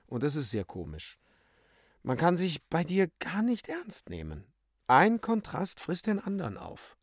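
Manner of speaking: lightly acted reproach, lilting upward; mocking Euphemia. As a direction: tease him with rising, high-pitched phrases. Euphemia mocks Bébuquin. (leicht spöttisch, in hoher Stimmlage)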